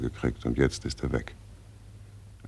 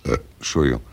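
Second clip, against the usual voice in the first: burping; much faster than usual. Acted. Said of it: "Warum rülpsen Sie denn fortwährend so ekelhaft".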